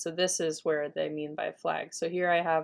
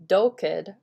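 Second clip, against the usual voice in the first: "doked" with the first syllable accented; stress on first syllable; 6 dB louder than usual. Shown as a demonstration. Teacher showing an irregular Dakota word, "doked" stressed on first syllable. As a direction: hit the start of "doked", unstressed second syllable. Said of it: "the accent is on the first syllable".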